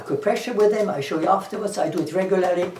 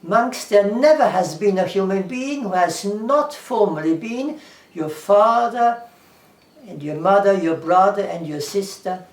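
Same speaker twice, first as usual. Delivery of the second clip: solemn quotation; 5 dB louder than usual. Retold or imitated. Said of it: "The Buddha says".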